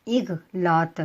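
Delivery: اغلاط with zer under alif and silent ghain, ig-laat; careful demo word. Shown as a demonstration. Teacher spelling out اغلاط for students, carefully. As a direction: say اغلاط crisply, ghain closed. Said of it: "الف کے نیچے زیر، غین ساکن".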